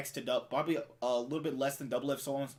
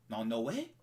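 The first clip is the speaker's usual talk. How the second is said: lightly imitated Indian accent; a hint of an Indian accent; 3 semitones higher than usual. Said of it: "that was an Indian accent".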